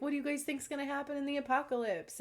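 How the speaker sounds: a chirpy celebrity greeting; bubbly TV host impression. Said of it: "And he's like".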